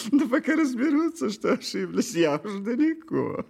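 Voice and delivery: cunning lively fox; sly fox voice. Acted. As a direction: speak as a crafty fox. Fox character speaks.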